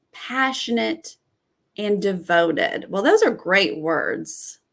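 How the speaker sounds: ordinary talk, nothing marked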